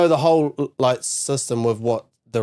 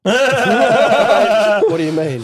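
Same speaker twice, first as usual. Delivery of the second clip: robot voice; 9 semitones higher, 6 dB louder, much slower than usual. Acted. Mock dramatic question.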